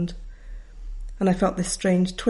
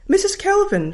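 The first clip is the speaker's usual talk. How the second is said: much higher and louder; teacher shouting her name down a bad line; 13 semitones higher, 4 dB louder than usual. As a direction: hoot the name out from a cave. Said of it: "said the voice".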